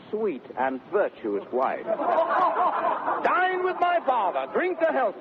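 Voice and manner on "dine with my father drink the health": laughs, then speaks through the laugh. Acted. Petruchio mocking the wedding guests, laughing. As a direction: chuckle out the invitation.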